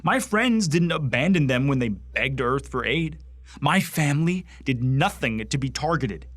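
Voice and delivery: indignant rant. Acted. Bigot railing to a superior about skinnies, indignant. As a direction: press each accusation with rising indignation.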